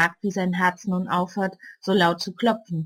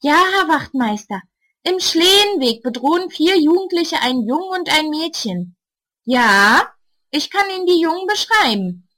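calm phone voice; 7 semitones higher, 4 dB louder than usual. A narrator's reading. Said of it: "Ruhig spricht sie in ihr Telefon".

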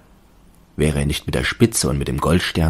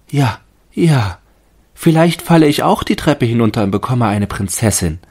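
high, louder wondering tree; the fir tree musing; 8 semitones higher, 6 dB louder than usual. A narrator's reading. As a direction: muse aloud like a naive little tree. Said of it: "dachte der Tannenbaum".

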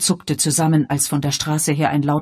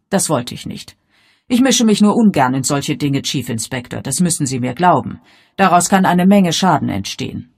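lightly voiced concerned lady, insistent; Miss Marple; 2 semitones higher, 8 dB louder than usual. A narrator's reading. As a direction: plead earnestly as a reluctant amateur sleuth. (leicht angedeutete besorgte Dame, eindringlich)

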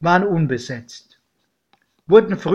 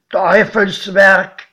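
put-on slow, louder old farmer's voice; godfather's verdict; 3 semitones higher, 6 dB louder, slower than usual. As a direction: pronounce it slowly like a grim verdict. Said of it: "Mein Pate meinte nur".

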